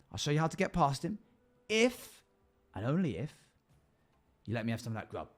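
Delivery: scheming goblin bargaining for food. Acted. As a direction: hiss a warning like a hungry goblin. Goblin warns of giant.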